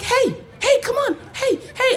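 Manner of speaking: high, eager cop waving him over; chirpy mock cop voice; cop calling out. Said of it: "and she's like".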